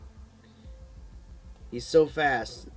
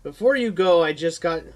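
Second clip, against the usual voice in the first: nurse voice; 6 semitones higher, 8 dB louder than usual. Acted. Nurse asking Keith.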